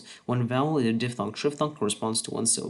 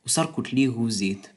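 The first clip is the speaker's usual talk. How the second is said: unvoiced whisper of the result. Shown as a demonstration. Narrator whispering the finished Ut translation. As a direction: breathe the translation without voice.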